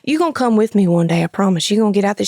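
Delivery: lightly imitated Louisiana accent; coaxing, with a hint of Louisiana twang; Louisiana stepdad. Stepdad persuading mom to come hunting, light Louisiana accent. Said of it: "he's from Louisiana".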